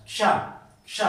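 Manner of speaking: क्ष said "ksha", k running into sh; correct conjunct. Shown as a demonstration. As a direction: join k and sh in क्ष. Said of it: "शुद्ध रूप से कैसे pronounce".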